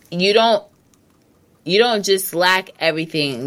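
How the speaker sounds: talking through hiccups. Real, not acted. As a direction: hiccup between the words. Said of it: "Excuse me for the hiccups".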